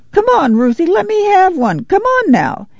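put-on high, wheedling child's whine; a small boy begging his sister for a petal; pleading little boy. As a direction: beg your sister like a small kid.

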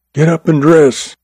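mock-menacing order; threatening command. A narrator's reading. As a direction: command her up in one breath, menacing. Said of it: "he threatened and commanded in one breath".

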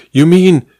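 high, rising disbelief; dawning shock. A narrator's reading. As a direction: realise it as you say it. Duchess realises the truth.

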